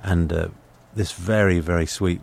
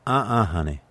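Southern waitress; slower than usual. Retold or imitated. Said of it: "And she said".

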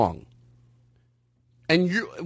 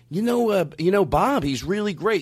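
put-on dumb accent. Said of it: "I'm gonna do an overly dumb, dumb, a-, dumb accent".

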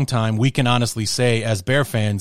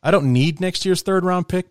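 general manager bluster; 8 semitones higher than usual. Acted. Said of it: "if I'm Ryan Poles".

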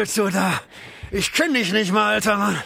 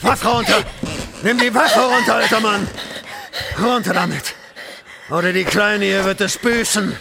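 angry shouting. Acted. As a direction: bark the orders at him. Gunman threatening old man.

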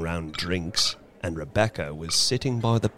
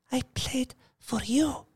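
high, soft and breathless little voice; restrained breathless voice; 3 dB quieter than usual. Acted. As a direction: hold back, almost out of breath. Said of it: "spoke in her restrained, breathless little voice".

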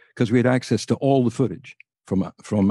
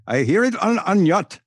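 Gaddafi voice; 8 semitones higher than usual. Retold or imitated. Gaddafi telling the host where he heard the tape, mock foreign voice. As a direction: explain it in broken English like the colonel. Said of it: "I am Colonel Gaddafi".

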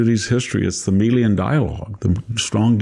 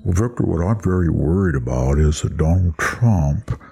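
snooty academic voice; 2 semitones lower than usual. Retold or imitated. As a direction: lecture like a smug professor. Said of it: "Victor was trying to imitate a nasal voice".

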